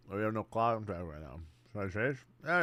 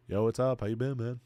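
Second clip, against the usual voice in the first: relaxed, easy yo; just hang out, no pressure; casual greeting; 2 semitones higher, 3 dB louder than usual. Shown as a demonstration. Streamer demos a laid-back hello to a girl. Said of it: "You walk up to her and you say".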